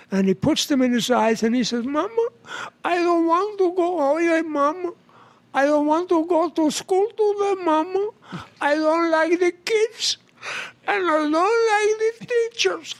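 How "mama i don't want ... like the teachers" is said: put-on much higher Spanish-accented whine to Mama; whining Spanish accent. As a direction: plead like a reluctant schoolboy, Spanish accent. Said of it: "did I do a Spanish joke for you".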